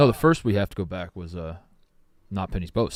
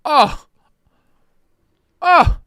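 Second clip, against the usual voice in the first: climbing, crying-out oh; building cry of feeling; rising emotional wail; 13 semitones higher, 9 dB louder, much slower than usual. Real, not acted. Reacting to the show's ending.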